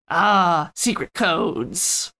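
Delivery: slow, dramatic hushed reveal; mock dramatic. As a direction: drag out secret codes.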